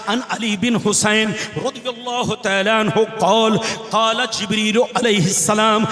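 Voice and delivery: rhythmic Arabic recitation from the pulpit; preaching. Acted. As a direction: recite scripture firmly, phrase by phrase. (अरबी हदीस पढ़ने का तक़रीरी अंदाज़)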